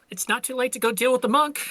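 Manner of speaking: high, quick mock plea; voicing the arena. Arena urging the game master toward another fight, high mock plea. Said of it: "The arena's like".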